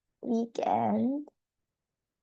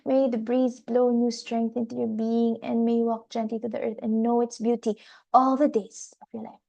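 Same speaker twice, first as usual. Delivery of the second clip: spoken blessing. Acted. Teacher closing the Reiki meditation, gentle blessing. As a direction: bless them gently, like a benediction.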